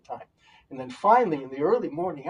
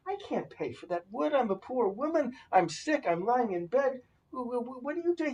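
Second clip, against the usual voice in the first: put-on old woman voice; 9 semitones higher than usual.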